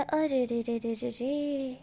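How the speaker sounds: slow, soft teasing "अरे रे रे"; coy playful stretch; teasing drawn-out are re. Acted. Villain teasing Wing, slow and coy.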